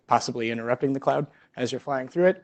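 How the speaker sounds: usual speaking voice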